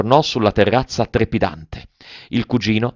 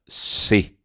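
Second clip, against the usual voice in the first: da Otello. A narrator's reading. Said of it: "con accento da Otello".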